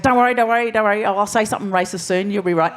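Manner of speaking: retelling the farmer teasing them, half-laughing; joking farmer. Retold or imitated. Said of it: "he's joking, he's laughing".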